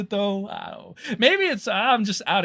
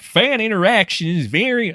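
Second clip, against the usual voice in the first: put-on redneck twang; redneck accent; 5 semitones higher, 4 dB louder than usual. Streamer reminding chat about comments, in a redneck accent. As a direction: slip into a playful redneck accent. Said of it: "I don't know why I'm doing this redneck accent".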